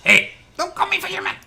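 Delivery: a very high, loud indignant yell; angry shout. Acted. Fisherman yells at the lawyer not to call him that. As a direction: bellow it after him as he runs off.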